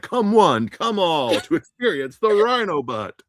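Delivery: lightly hammed circus barker; top-hat showman. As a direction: hype it up like a ringmaster with a top hat. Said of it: "a top hat and you're like".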